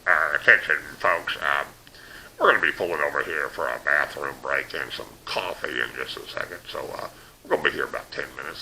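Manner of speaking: mock PA announcement from the driver; lightly voiced bus driver on the intercom. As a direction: play the bus driver making a drawling announcement.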